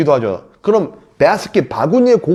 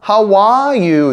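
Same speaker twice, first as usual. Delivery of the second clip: "How are you?" slow, with a high, long ARE; stress on ARE; 5 semitones higher, much slower than usual. Shown as a demonstration. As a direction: lean hard on "are", then fall on "you". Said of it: "아의 강세가 있어요". ("are"에 강세를 둔 느린 발음)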